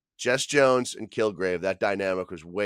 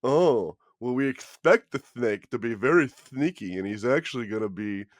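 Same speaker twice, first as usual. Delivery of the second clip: sneaky snake voice; 2 semitones higher than usual. Acted. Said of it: "Are you doing a snake voice right now?".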